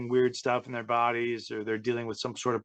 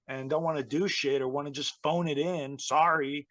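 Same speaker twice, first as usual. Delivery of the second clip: higher, sarcastic hammed-up complaint; mock indignant rant; 5 semitones higher than usual. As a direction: grumble like a self-righteous worker. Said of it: "He was like".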